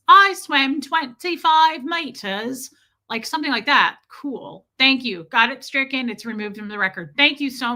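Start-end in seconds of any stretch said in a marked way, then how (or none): 0.1-2.7 put-on accent, high, loud and slow; slow, emphatic, exaggerated accent impression; Lucas. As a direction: imitate an accent, each word drawn out. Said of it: "unless it's something cool like Stella or like Lydia Krause's son, Lucas".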